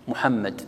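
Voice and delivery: "محمد" ending on a still d, no vowel; stop on a silent final consonant. Shown as a demonstration. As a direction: close "محمد" dead on the final d. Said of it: "تسكنها. تقول مثلًا".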